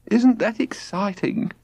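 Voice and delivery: high, slow gushing; thrilled and breathless; excited mother. A narrator's reading. Albania's voice.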